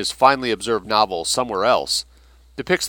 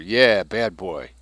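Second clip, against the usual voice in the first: slow mock scolding of a naughty boy; drawn-out, slow teasing scold; mimicking scolding; much slower than usual. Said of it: "the speaker mimics Blair's pointing finger".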